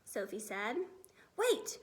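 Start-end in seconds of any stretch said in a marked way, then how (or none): 1.4-1.8 higher, louder eager cry; excited giant's cry; cried out. Acted. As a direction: call out to stop her. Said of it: "he cried".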